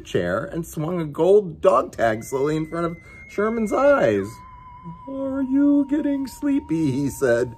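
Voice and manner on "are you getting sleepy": slow, high, dreamy hypnotist voice; drawn-out hypnotic question. Acted. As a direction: lull him under like a stage hypnotist. Hypnotist swinging dog tag.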